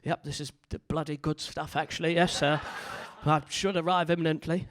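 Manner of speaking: hint of a stuffy English gent; lightly mocked, polite English dirty talk; stiff English accent. Englishman attempting dirty talk, awkwardly formal English accent. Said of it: "English people, it just sounds rubbish".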